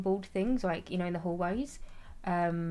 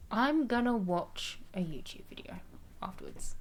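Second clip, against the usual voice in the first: whisper; 2 semitones higher than usual. Real, not acted. Whispered aside to chat.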